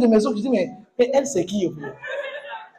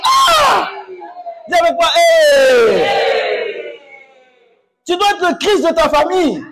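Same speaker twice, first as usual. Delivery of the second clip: fiery preaching; 3 semitones higher than usual. Acted. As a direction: preach it hard to the congregation. Pastor preaching to congregation.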